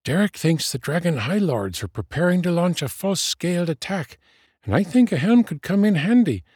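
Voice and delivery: high, lively voice, quickening; chattering friend. A narrator's reading. Friend arguing that a helm is useful, high chatter. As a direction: rattle on in a high voice.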